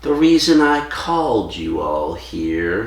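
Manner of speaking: weird lispy, slow-talking voice; Truman Capote. Retold or imitated. Podcaster imitating the murder-mystery host for his co-host, slow lispy voice. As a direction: imitate a lispy film host, every word drawn out. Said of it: "slow-talking voice like that".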